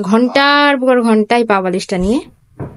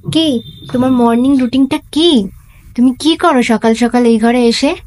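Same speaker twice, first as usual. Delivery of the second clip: higher, sing-song questions to the pet; pet talk; 4 semitones higher than usual. Real, not acted. Mother asking her pet about its routine, sweet higher pet talk.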